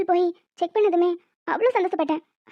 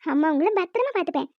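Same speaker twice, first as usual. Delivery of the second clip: put-on tender baby talk. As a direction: speak gently to your unborn child. Mother talking to her unborn baby. (வயிற்றில் உள்ள குழந்தையிடம் மென்மையாக, கொஞ்சலாக)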